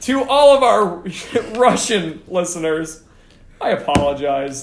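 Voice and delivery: mock Russian apology. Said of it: "It was a bad accent".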